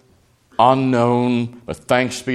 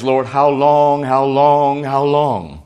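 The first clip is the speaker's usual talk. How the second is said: drawn-out pleading, louder, each long stretched; anguished cry; 4 semitones higher, 7 dB louder, slower than usual. Retold or imitated. Preacher voicing a suffering believer's cry, pleading and drawn out. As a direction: cry out to the Lord in distress. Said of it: "our cry is".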